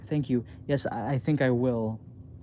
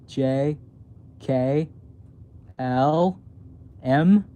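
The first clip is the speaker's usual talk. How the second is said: building to a yell; much slower than usual. Acted. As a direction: recite the alphabet, climbing into a scream. Alphabet building into scream.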